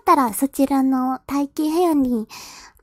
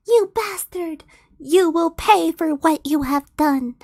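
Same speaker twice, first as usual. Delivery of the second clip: a mock-angry heroine's cry, pitched higher; angry outburst; 4 semitones higher than usual. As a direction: shout at the ogre, hammed up a little. Heroine's angry outburst read aloud.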